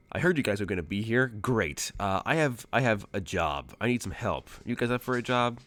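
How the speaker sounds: loud, fast, no-nonsense demand; brisk mercenary boss. Acted. Outcast slams the table and pitches the job, loud and fast. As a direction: bark out the job offer quickly. GM voices Outcast slamming arms.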